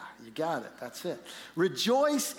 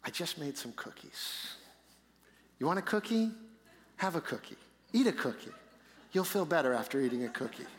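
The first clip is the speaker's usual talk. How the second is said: coaxing; 5 semitones lower, 4 dB quieter, faster than usual. Retold or imitated. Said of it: "And what do you do?".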